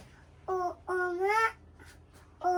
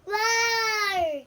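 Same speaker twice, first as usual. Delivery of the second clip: huge fiery dragon roar; 2 semitones higher, 5 dB louder than usual. Pretend. Child playing dinosaur roaring.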